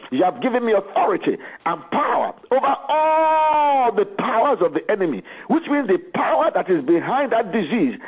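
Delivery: preacher praying over the phone; fervent prayer. Acted. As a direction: pray with steady conviction. Prayer on a healing hotline.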